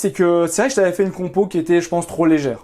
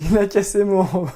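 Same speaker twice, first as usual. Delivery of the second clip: laughing. Retold or imitated. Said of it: "laughing echo".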